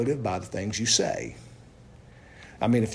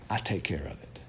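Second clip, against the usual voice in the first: low solemn; 7 semitones lower, 10 dB quieter than usual. Acted. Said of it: "what does the Lord say?".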